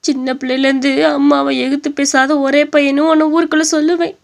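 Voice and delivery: wounded mother breaking into tears; crying mother. Acted. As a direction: sob out the complaint against the son. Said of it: "அழுகாதீங்க அத்தை".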